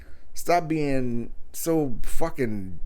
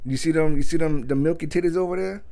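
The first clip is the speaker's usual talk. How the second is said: mock proud boyfriend; 5 semitones higher than usual. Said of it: "and be like".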